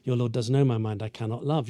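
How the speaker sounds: understated, settled refusal; resolute refusal. Acted. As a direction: restate the vow matter-of-factly. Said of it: "what she's been saying all along".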